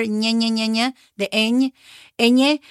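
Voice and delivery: "ñe" repeated with a palatal ny sound; ñ sound demo. Shown as a demonstration. Teacher reminds learners of the letter, demonstrating ñ. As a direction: sound out ñ as "nyeh". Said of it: "You remember that letter".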